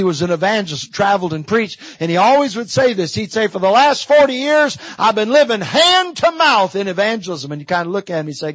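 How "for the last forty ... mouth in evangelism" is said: raised, emphatic retelling of a preacher's saying; lightly voiced old preacher proclaiming; mentor's proclamation. Preacher quotes his mentor's favorite saying, proclaiming.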